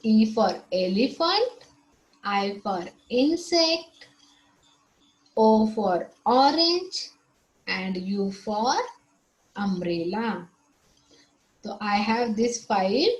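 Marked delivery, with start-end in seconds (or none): 0.1-10.4 very slow, each word spaced out; slow teaching recital. Shown as a demonstration. Teacher reading the vowel chart to pupils, very slow. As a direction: spell it out slowly for small kids. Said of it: "these are the vowels".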